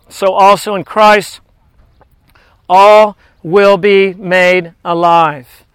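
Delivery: measured, earnest scripture reading. Acted. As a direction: read the verses like a preacher. Reads scripture aloud in sermon.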